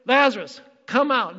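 loud, high commanding call; Jesus. Retold or imitated. Preacher voices Jesus at the opened tomb, loud command. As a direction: shout into the tomb to summon him. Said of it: "What does Jesus say?".

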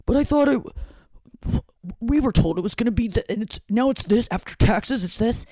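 lightly mocked parents protesting a shortfall; complaining parents. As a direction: imitate a confused, put-out parent. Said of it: "my parents make this noise, too".

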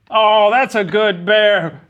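very slow, high, loud doting; creepy praise. Pretend. Creepy man praising his fake dog, slow and high. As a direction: croon it out eerily.

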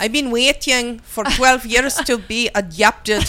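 put-on slow, heavy Russian accent. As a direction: speak like a sultry Russian spy, slowly. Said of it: "Nadia and Olga, we're talking to you".

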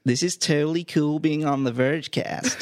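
exaggerated American slacker accent. Shown as a demonstration. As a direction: stretch it out like an American teen. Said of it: "Do an American accent".

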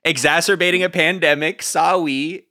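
high sing-song apologetic voice; mock sheepish shop owner. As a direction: play it coy and guilty. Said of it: "the owner of that yoga studio who's like".

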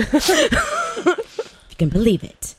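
laughing at herself, slow and high; a real self-mocking laugh through the words. Real, not acted. Narrator laughing at her past self.

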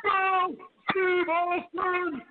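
slow, drawn-out wrestler trash talk; lightly voiced cocky wrestler boast; The Rock. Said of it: "And, and The Rock would say".

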